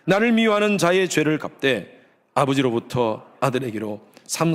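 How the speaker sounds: slow, measured Bible reading aloud; solemn, slow recitation with stretched words; scripture reading. Real, not acted. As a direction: lead the congregation through the verse in deliberate phrases.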